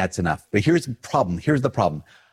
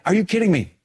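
cantankerous retort; 10 semitones higher than usual. Retold or imitated. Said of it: "maybe cantankerous".

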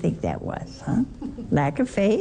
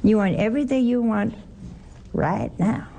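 Southern drawl. Shown as a demonstration. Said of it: "when you say it southernly".

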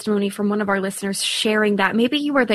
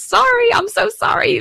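embarrassed laughing apology; 12 semitones higher, 4 dB louder than usual. Real, not acted. Laughing apology after a slip.

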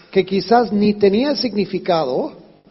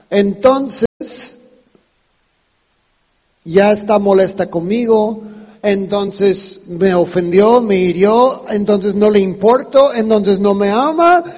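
louder, building chain of grievances; mounting despair; 3 dB louder than usual. Retold or imitated. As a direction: pile each worry on the last. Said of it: "me eché todo el espiral pesimista". (espiral pesimista que crece en volumen)

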